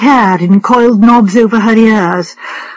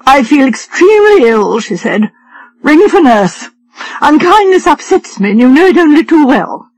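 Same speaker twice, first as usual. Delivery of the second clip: higher, fussy society wife; a lightly raised voice for a complaining wife; fretful wife; 4 semitones higher than usual. Acted. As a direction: read her as a petulant invalid wife, pitched up.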